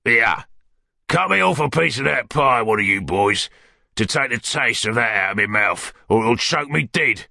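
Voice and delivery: lightly voiced rough villain ordering the boys about; Sikes, disgusted. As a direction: order them round with sour distaste.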